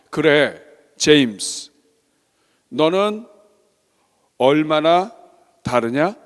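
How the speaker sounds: slow, spaced-out divine address; voice of God. Acted. God speaking into the father's heart, slow and solemn. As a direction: let each phrase land with long pauses. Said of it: "하나님의 음성이 들린 거예요".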